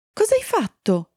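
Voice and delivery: high-pitched, alarmed question at storytelling volume; worried exclamation. A narrator's reading. Era fears for her hurt friend, a worried high exclamation. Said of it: "esclamò Era, preoccupata per l'amica".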